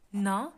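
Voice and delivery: "na" sounded alone as one syllable. Shown as a demonstration. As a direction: set "na" apart as the second beat. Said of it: "is the second sound".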